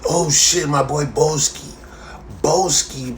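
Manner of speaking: imitating a fan who misnames him; mock hype greeting. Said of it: "the fuck did you get Booski from".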